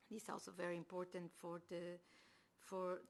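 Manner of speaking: hoarse, strained voice; losing voice. Real, not acted. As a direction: voice giving out, hoarse. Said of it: "I'm losing my voice".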